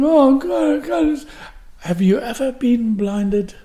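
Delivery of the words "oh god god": high wail of despair; acted anguished cry; panicked moaning. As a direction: wail helplessly, re-enacting panic. Re-enacts lying blinded on bed.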